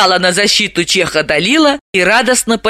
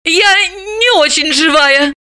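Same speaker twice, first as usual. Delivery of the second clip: lightly voiced young woman, high and dry; Dalila quick aside; 10 semitones higher, slower than usual. Dalila cuts in on the drunks, a touch wry. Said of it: "поспешила вставить Далила".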